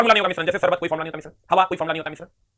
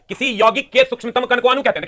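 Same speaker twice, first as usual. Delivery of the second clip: slow dictation; 4 semitones higher, 5 dB louder than usual. Shown as a demonstration.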